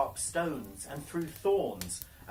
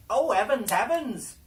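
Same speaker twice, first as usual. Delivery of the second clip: loud, high cry of amazement; astonished cry; 7 semitones higher, 10 dB louder than usual. Acted. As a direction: gasp it out, stunned by her beauty. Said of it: "cried they".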